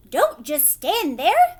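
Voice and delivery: loud, slow scream at husband. A narrator's reading. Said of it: "Missus Gloop screamed at Mister Gloop".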